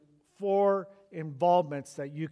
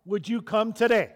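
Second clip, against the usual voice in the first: imitated prayer; 5 semitones higher, 7 dB louder than usual.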